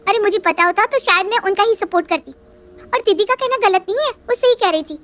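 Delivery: sulky daughter-in-law pleading her case; Riya's voice. Acted. Narrator voices Riya complaining.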